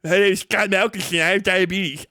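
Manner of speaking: lightly voiced nerdy kid, playing along; a mild put-on nasal-free kid voice, deadpan; Scott Malkinson impression. Streamer repeats the jab he gets from chat, lightly voicing the kid. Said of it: "Why do you sound like Scott Melkinson".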